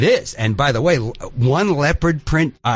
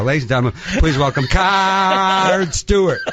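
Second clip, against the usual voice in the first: announcer shout; 5 semitones higher than usual. Retold or imitated. Host introducing a singer to six thousand people, booming. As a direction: boom it out across the hall. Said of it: "and I go".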